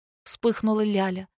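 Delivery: ordinary delivery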